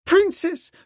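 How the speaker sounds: high, loud pleading cry; beseeching. A narrator's reading. Servant girl beseeching the princess, high and loud. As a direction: plead with her mistress in a high voice. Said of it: "she beseeched".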